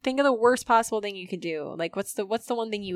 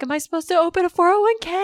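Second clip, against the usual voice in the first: higher, louder, fast frantic question; panicked yell; 10 semitones higher, 8 dB louder, faster than usual. Retold or imitated. The girl in her car asking about retirement, a frantic yell. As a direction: rattle it off in a panic. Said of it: "She's like".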